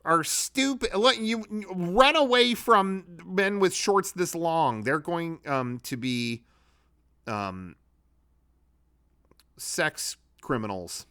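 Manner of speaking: squeaky, drawn-out mockery of the critics; mocking impression. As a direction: parody the hypocrites in a squeaky sneer. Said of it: "turn around and go like".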